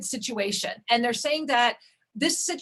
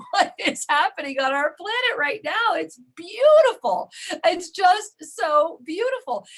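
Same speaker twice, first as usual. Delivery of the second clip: rapturous; 4 semitones higher, 5 dB louder than usual. Real, not acted. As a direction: savour each word with wonder. Rapturous praise of the moment.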